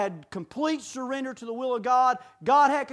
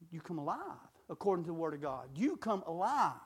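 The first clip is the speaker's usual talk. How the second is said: hushed solemn preaching; 4 semitones lower, 9 dB quieter than usual. Real, not acted. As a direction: draw them in quietly. Quiet slow sermon passage.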